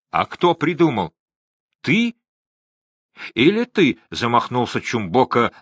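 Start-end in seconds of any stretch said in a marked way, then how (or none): 0.1-4.0 high, pressing questions; angry interrogation. A narrator's reading. Chumboka rounding on Gao and his son, accusing. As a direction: jump up in pitch on each accusation. Чумбока threatens Гао and son.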